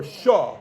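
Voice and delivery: "shah" with the ayin dropped; ayin left silent. Shown as a demonstration. Teacher showing students the easier way, ayin left silent. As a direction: say "shah" as one syllable, no ayin. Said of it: "Without pronouncing the ayin".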